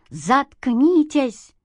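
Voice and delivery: put-on furious mother barking at the young man; barked. A narrator's reading. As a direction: shut him up with one hammering word. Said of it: "рявкнула мама".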